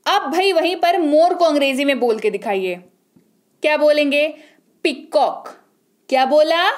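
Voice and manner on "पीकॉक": "पीकॉक" split into two beats, पी and कॉक; two syllables. Shown as a demonstration. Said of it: "दो बार बोला".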